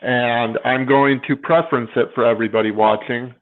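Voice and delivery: talking through a yawn; tired, yawning words. Real, not acted. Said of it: "I'm sorry I'm yawning so much".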